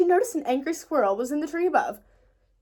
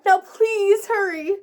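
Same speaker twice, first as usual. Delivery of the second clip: impatient; 8 semitones higher, 6 dB louder, much slower than usual. A narrator's reading. Impatient order to brother.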